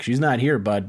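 put-on a light, barely-there Australian accent. Shop worker tells the camera she's gone, mild Australian accent. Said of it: "he says it in an Australian accent".

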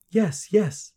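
put-on high, loud, urgent girl; desperate agreement. A narrator's reading. Girl to little man, desperate consent. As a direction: give in at once.

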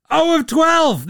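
Oh of twelve, as if he can't believe it; disbelief. Real, not acted. Host shocked at a zero-for-twelve night, disbelieving.

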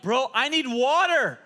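high, loud, drawn-out cry for water; desperate mock plea. Preacher replays begging his friend for water, comically desperate. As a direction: beg as if your mouth is burning. Acts out begging after hot curry.

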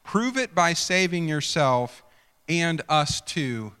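sneering challenge from a scoffing criminal; sarcastic scoff. Acted. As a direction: taunt him with sarcasm. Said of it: "You can hear the sarcasm".

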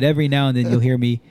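joking touch of Southern twang; playful Southern accent. Pretend. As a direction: let a little hick accent slip out on purpose. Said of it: "That one was for fun".

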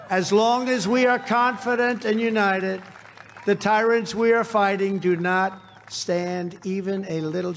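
roaring rallying speech. Real, not acted. Rally speech to cheering crowd.

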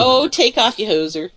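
put-on Canadian hoser accent. Teased about living near Vancouver, mock Canadian accent. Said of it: "I can do the Canadian accent".

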